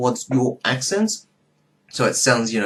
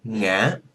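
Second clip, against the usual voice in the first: "ngã" rising like a question. Shown as a demonstration. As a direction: lift the end of "ngã" as if asking. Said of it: "it sounds like a question".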